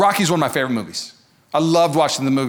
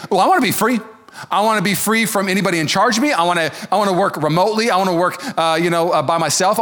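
mock freedom seeker; 4 semitones higher, faster than usual. Voicing modern freedom seeker.

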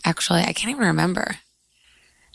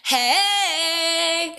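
much higher, bright-eyed cheery hello; bubbly hey; 8 semitones higher than usual. Shown as a demonstration. Cohost redoes her podcast hello more bubbly. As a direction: restart the greeting full of pep. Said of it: "Let's start again".

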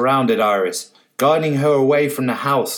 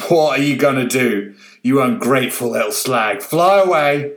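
bellowed; 3 dB louder than usual. Acted. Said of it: "the old man bellowed".

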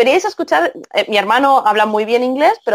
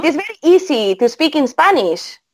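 English with a heavy Spanish accent, every letter pronounced. Shown as a demonstration. The speaker shows off her Spanish accent for the hosts, Spanish accent. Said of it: "decir una frase en inglés con".

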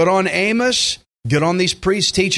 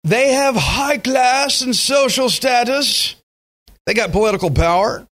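put-on British accent; 7 semitones higher than usual. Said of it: "speaking with a British accent".

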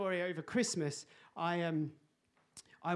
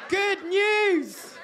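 higher, louder, laughing good news; reading jumper, hammed-up; 11 semitones higher, 11 dB louder than usual. Preacher reads his Christmas jumper slogan, hammed-up and laughing. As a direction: proclaim it like a banner. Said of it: "jumper that says".

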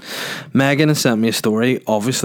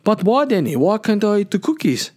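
put-on much higher little kid voice; scared kid; 10 semitones higher than usual. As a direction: plead like a frightened child. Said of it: "they're like".

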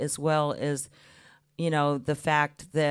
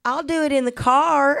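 imitating herself as child; 10 semitones higher, 8 dB louder than usual. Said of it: "And I said".

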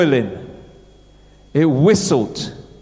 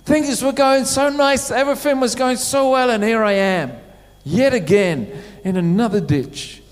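higher, whining lament in a mock moan; mock groaning lament; 6 semitones higher than usual. Believer stuck in a ditch moaning to himself, mock whine. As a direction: moan it like someone stuck again. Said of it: "We're kinda going".

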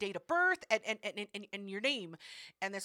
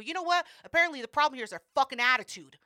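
fast, louder angry rant; 4 semitones higher, 6 dB louder, faster than usual. Retold or imitated. Telling off the lady on the phone, angry. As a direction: let the attitude fly, quick and heated.

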